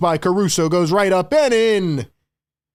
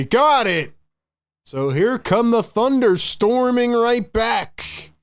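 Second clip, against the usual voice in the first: excited call; 6 semitones higher, slower than usual. Real, not acted. Caruso three, call rises.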